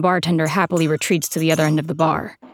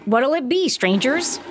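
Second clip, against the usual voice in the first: bartender voice; 7 semitones higher than usual. A narrator's reading. Bartender greets strangers.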